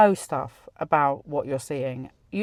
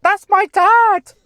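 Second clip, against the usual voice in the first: much higher and louder, slow and drawn out; stunned exclamation; 11 dB louder, slower than usual. Retold or imitated. Friend realises the vision was her late father, crying out. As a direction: cry it out in disbelief. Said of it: "She said".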